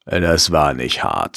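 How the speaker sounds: put-on slow, low heavy Russian accent. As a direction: imitate a Russian fighter's accent. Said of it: "so einem ganz schweren russischen Akzent".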